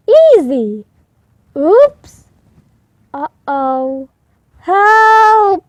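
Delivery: from careful to a high loud cry for help; wobble, slip and yell for help; panicky cries while falling. Acted. Hippo toppling off his stilts, rising panic.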